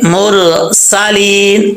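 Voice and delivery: मुरसालीन slowly, whistled सीन; drawn-out recitation. Shown as a demonstration. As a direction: stretch मुरसालीन with a hissing सीन. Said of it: "सीन में सीटी आएगी".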